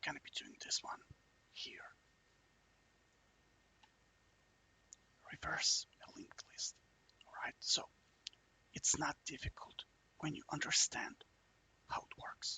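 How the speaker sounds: hushed whisper. Starting a coding tutorial while the neighbors sleep, whispering. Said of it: "Sorry about me whispering".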